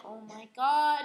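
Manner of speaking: loud mock-frightened outburst; scared. Girl seeing a policeman right ahead, mock fright. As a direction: act out a startled driver's cry. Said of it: "She gets scared".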